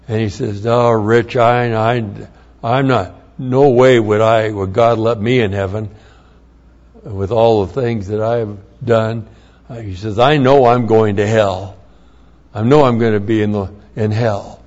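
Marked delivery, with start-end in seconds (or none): 0.7-9.3 louder, pleading protest; a father insisting he's beyond saving; retold despair. Father despairing about his sins. 10.2-14.6 louder, resigned certainty; hammering home that he's doomed; retold despair. Father certain he's going to hell.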